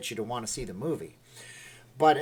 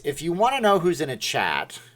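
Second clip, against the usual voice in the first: slight Canadian accent; 3 semitones higher, 3 dB louder than usual. Real, not acted. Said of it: "I said that very Canadian".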